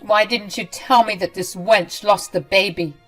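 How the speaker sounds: sneering. Acted. Ramona sneers to son.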